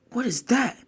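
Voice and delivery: high rising shocked question; startled. Acted. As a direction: blurt it out in surprise. Naruto sees the monster.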